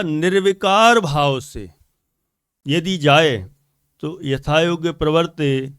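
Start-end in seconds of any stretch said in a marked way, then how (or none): 0.0-1.7 निर्विकार punched louder, its long vowel stretched; stress on निर्विकार. Shown as a demonstration. Preacher points to the written wording, stress on निर्विकार. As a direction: lean hard on the कार of निर्विकार. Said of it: "यहाँ लिखा".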